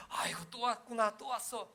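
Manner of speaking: lightly voiced loving father; fond God. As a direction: welcome the child back gladly. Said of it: "하나님은 꾸짖지 아니하신다".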